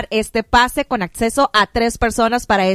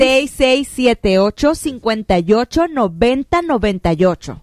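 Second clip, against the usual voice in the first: digits read out slowly for dictation; more slowly. Real, not acted. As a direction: give the number at a slower, measured pace. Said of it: "Más despacito, ya me quedé en el seis".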